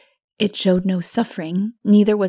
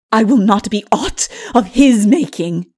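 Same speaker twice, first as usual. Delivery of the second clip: defiant refusal; 3 semitones higher, 10 dB louder than usual. A narrator's reading. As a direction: spit out the refusal. Lilith refuses again.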